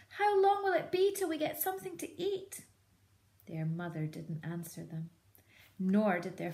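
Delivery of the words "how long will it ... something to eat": much higher, whispery plea; hungry cubs. Acted. Fox cubs to their mother, high whispered plea. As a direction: whimper it.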